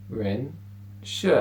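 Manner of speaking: two careful syllables, "Shi" with a rising second tone; rising Chinese tones. Shown as a demonstration. Teacher introduces students to the first words, said with clear tones. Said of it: "the first two words that we learn".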